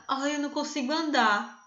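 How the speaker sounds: mock moan of a man who can't walk; whiny sick man. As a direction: play up a tiny pain as a tragedy. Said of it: "tá com encravada".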